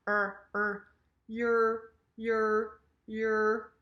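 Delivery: "Er" held as an r vowel, then "your" as yer; curled-tongue R. Shown as a demonstration. Teacher drills curled tongue for learners, "your" as yer. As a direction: curl the tongue back for "Er" and "your". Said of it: "curl your, uh, your tongue backwards".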